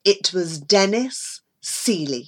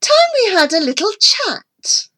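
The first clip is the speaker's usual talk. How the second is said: menacing woman; 12 semitones higher, 4 dB louder than usual. Acted. Millington confronts Mary menacingly.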